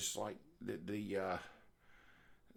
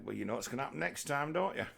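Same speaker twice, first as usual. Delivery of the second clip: mock menacing threat; 5 semitones higher, faster than usual. Pretend president threatening someone who spilled water, mock menace. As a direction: tease them with a playful threat.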